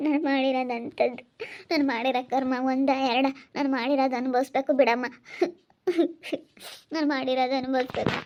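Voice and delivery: acted tearful self-blame, halting between phrases; resigned lament with long, tearful pauses. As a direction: lament your fate through held-back tears. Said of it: "ಸುಮ್ನಿರು, ಅಳ್ಬೇಡ".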